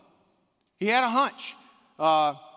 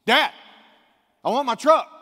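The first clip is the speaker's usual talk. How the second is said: put-on child's demand; 8 semitones higher, 11 dB louder than usual. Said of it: "what would a son of a president do".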